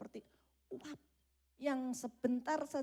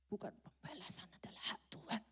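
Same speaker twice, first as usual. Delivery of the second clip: breathy secret thought; hushed inner voice, whispered; 11 dB quieter than usual. Acted. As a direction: whisper it as if hiding it.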